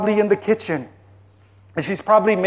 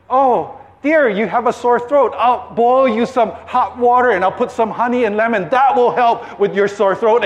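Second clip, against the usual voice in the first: higher-pitched, motherly solicitous chatter; fussing wife; 4 semitones higher than usual. Acted. Elizabeth tends her husband's sore throat, fussing kindly. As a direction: fuss over him sympathetically. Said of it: "Elizabeth says".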